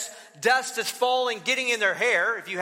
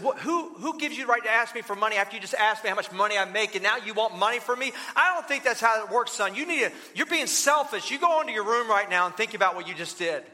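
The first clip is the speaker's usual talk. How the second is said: mock outburst of an irritated father, rushed in places; a dad snapping at his son's cheek; retold fatherly anger, not shouted; angry dad. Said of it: "that really set the dad off".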